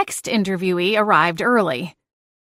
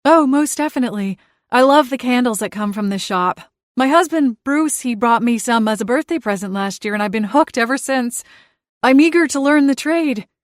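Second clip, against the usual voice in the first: a hint of an eager matron, higher and brighter; eager middle-aged woman; 4 semitones higher than usual. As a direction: gush to please the interviewer. Middle-aged applicant speaking.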